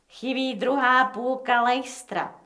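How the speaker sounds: slow, fed-up delivery; disgusted. Acted. Gang boss to his crew, slow and disgusted. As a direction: drag the words out in disgust. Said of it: "řekl znechuceně Al Capone".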